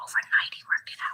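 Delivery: hushed, breathy whisper under the breath. Addressing 'you guys' while telling a personal story: whispering. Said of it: "I don't know why I'm whispering".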